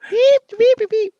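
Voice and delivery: high robot beeps. Pretend. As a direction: chirp like a little droid. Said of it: "R two, is that you?".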